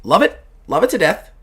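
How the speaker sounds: lightly voiced gushing, leaping up on the short bursts; enthusiastic tea-loving baker. Baker telling the shop owner she loves tea, lightly gushing. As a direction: gush in punchy little bursts, then rattle off the end. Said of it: "She goes".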